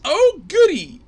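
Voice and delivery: high, loud sarcastic cheer; mock delight, dripping sarcasm. Sarcastic reply to the price.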